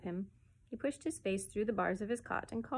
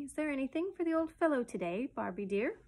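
lifted, carefully articulated question; distinct, coaxing repeat; more distinctly; 5 semitones higher than usual. A narrator's reading. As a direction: repeat it clearly for a small listener. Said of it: "he repeated more distinctly".

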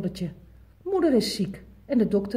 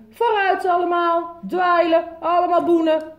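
louder, higher commanding father; grumbling father; 8 semitones higher, 5 dB louder than usual. Acted. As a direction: order everyone to mop. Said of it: "Vader bromde erg".

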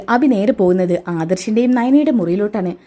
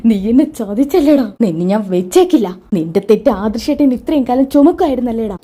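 wife choking Abhi after learning the truth, furious; furious accusation. Acted. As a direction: spit it out at the man who cheated her. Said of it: "കരഞ്ഞ കണ്ണാലെ ദേഷ്യം പിടിച്ച്".

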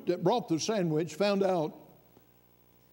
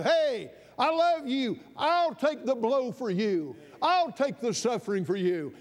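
God speaking; 5 semitones higher than usual. Acted. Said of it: "God said".

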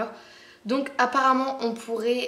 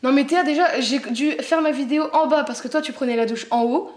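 louder, exasperated sibling quarrel; annoyed arguing; 4 semitones higher, 6 dB louder than usual. Real, not acted. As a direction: scold your sister, fed up. Arguing with sister about shower.

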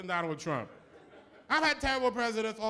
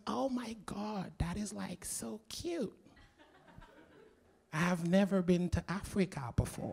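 a hint of a giddy girl gushing, with a laugh; airhead girl; 5 dB quieter than usual. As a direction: play the clueless fan, mild gush. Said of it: "She goes".

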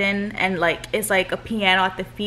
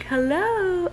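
put-on high sing-song hello to the baby; bright baby-talk hello to her son; high greeting; 10 semitones higher than usual. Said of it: "I'll be like".

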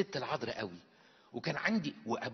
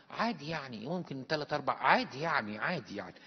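bored shrug. Retold or imitated. Indifferent husband answers.

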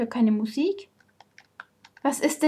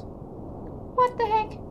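1 slow baffled exclamation; 9 semitones higher, 5 dB quieter, much slower than usual. Real, not acted. Wrong way in game.

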